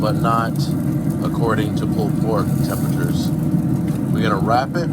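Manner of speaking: talking while holding breath; squeezed out on a held breath. Real, not acted. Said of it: "Sorry, I'm holding my breath here".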